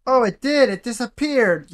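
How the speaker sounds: sudden high surprise; startled, voice jumps up; surprised. Real, not acted. Reacts to anomaly vanishing.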